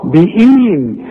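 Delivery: والصابئين with a thin و; light و. Shown as a demonstration. Teacher models the correct والصابئين. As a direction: keep the و light before the heavy صا. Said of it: "ما تقولش بقى وا".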